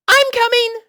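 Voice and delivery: high, loud filly shout; shouting back. Acted. Sweetie Belle answering Scootaloo through the door, high loud shout. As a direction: call it back across the yard. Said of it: "Sweetie shouted back".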